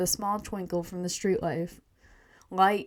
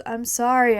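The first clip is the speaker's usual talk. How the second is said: defensive apology; 4 semitones higher, 8 dB louder than usual. Acted. Boy excuses himself when scolded.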